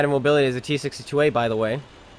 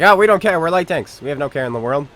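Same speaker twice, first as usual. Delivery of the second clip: mock light tank; 5 dB louder than usual.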